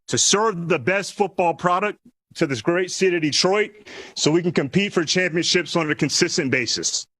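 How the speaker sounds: podium statement in phrases set apart by pauses; formal prepared speech. Real, not acted. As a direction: lay out a vision to the press, phrase by phrase. Delivers prepared vision statement.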